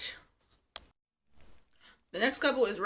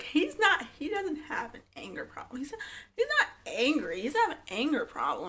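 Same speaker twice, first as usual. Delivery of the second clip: higher, half-whispered denial; mock defensive wife; 5 semitones higher than usual. Imitating the wife denying his anger, higher. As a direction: defend him in a put-on voice. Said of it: "And she's like".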